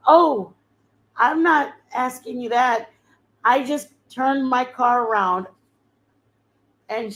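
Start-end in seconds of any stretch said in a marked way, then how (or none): 0.1-5.5 earnest stranger. Retold or imitated. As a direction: insist she came back on purpose. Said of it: "And she said".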